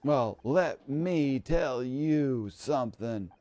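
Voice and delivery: indignant, drawn-out challenge; slow down hard into a threat; unhinged rant. Acted. Unraveling star confronts the audience, unhinged rant.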